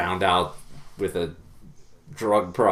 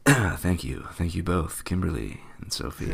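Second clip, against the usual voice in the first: put-on sultry thank-you, slightly softer; sexy voice; 2 semitones lower, 5 dB quieter than usual. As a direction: play it as a joke sexy voice. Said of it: "say that in sexy voice".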